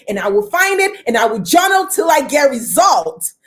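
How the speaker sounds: fierce resolve to journal until it works; determined declaration. Retold or imitated. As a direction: declare it like a desperate last stand.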